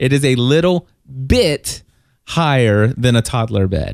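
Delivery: "bit" stressed, the rest said lightly. In a chat about a bed, making a point: stress on the word bit. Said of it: "And I want to stress the word bit".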